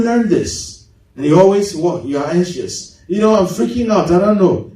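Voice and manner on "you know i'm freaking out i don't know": lightly put-on American accent; hint of American affectation; mock American accent. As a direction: imitate an anxious American, lightly. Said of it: "you think you sound so American".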